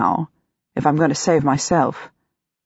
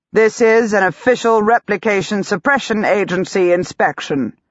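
raspy official loudspeaker voice, a bit higher; rasping voice of authority; 3 semitones higher than usual. Acted. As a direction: bark it out like a stern broadcast cop. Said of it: "A rasping voice of authority".

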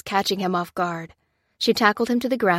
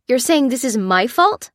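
raised, louder indignant question; indignant Lucy; 5 semitones higher, 7 dB louder than usual. A narrator's reading. Lucy rebutting Lopez's accusation, raised indignant voice. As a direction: challenge the blame.

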